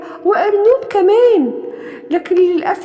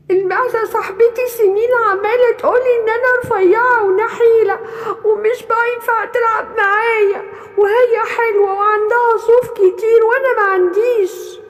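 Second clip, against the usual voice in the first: higher, teary little goat complaining; tearful complaint; 6 semitones higher than usual. Acted. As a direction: tell it through mild tears. Thin goat complains crying.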